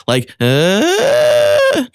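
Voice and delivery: high swooping crack; mezzo crack swing. Shown as a demonstration. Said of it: "like finding your fry, going to your mezzo with the swing".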